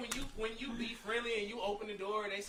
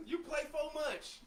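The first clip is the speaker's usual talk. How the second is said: laughing; 5 semitones higher, slower than usual. Real, not acted. Laughing line.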